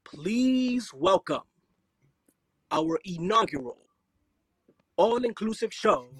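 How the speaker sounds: slow, drawn-out circus announcer; ringmaster voice. Shown as a demonstration. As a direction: announce it like a big top ringmaster. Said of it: "introduce Omnium Circus in your ringmaster voice".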